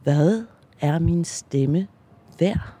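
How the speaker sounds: slow, deep-supported, from the belly. Shown as a demonstration. Testing her voice, slow and from the belly. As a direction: push it up from deep in the stomach. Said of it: "Eller helt ned i maven".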